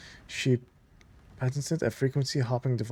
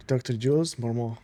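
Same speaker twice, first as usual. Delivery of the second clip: French accent on names. Shown as a demonstration. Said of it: "saying these names in this accent".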